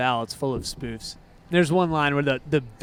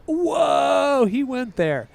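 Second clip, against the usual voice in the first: mock surprise; 9 semitones higher, much slower than usual. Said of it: "And it's like".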